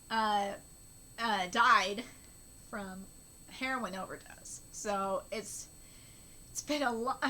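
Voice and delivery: low, halting real tearful speech; choked-up, pausing confession; crying with grief. Real, not acted. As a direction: get it out haltingly through tears. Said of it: "me crying like this".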